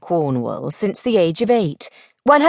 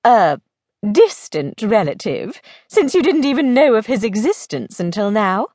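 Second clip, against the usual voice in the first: slightly raised, matter-of-fact lady; blunt lady friend; 2 semitones higher than usual. Acted. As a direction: lightly play a frank, teasing friend. Plays Belle reasoning briskly.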